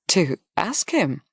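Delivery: slow, drawn-out questioning repeat; questioning echo. Acted. Hostess repeating the young man's request, questioning. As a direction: repeat it slowly, querying his words. She echoes his startling request.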